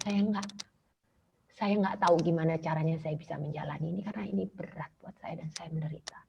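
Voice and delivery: mother retelling her prayer, whispering and tearful; whispered prayer. Retold or imitated. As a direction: sink into a whisper as you give in. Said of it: "saya bilang gitu sama Tuhan".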